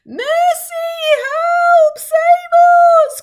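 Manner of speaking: high, loud panicked plea; frightened cry. Acted. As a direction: shriek for help in terror. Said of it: "cried the ladybird".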